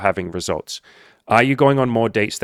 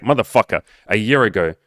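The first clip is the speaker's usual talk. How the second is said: louder, exasperated retort; 5 dB louder than usual. Real, not acted. Coach calls out a client for moving the goalposts, exasperated. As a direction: cut in with exasperated emphasis.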